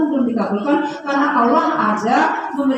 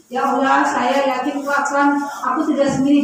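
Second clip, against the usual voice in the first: confident prayer; 3 semitones lower than usual. Shown as a demonstration. Preacher shows mothers a confident prayer, low and gentle. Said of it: "harus merasa yakin".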